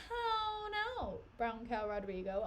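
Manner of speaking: sing-song playground rhyme; goofy rhyme tossed in; jokey how now brown cow. Pretend. Joking twist on Iago's line.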